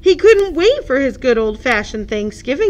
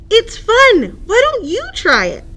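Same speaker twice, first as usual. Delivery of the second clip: higher, louder, brisk duck voice; lightly voiced playful duck; 9 semitones higher, 6 dB louder than usual. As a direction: invite like a bouncy kid.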